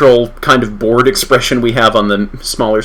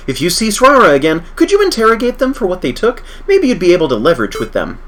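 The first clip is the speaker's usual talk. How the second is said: doctor character voice; 6 semitones higher than usual. Acted.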